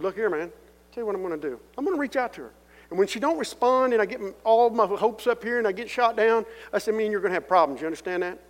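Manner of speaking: heated, angry. Retold or imitated. To the cellmate pushing him, angry and loud. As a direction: fire it back at him, hot and loud. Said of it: "I'm hot".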